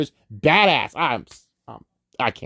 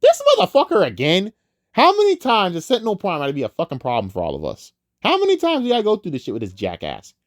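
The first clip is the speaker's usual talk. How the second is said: fast, fed-up rant; a touch of mock exasperation; exasperated fan; 4 semitones higher, faster than usual. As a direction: rattle it off like a weary fan who's seen it all. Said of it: "you're probably thinking".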